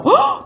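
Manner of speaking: sharp high gasp of shock; startled gasp. Retold or imitated. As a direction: gasp as if caught off guard. Shocked by the phone call. (놀라서 높게 헉 하고 숨을 들이켜며)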